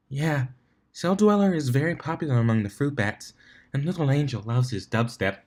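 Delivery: timid Fluttershy voice. Acted.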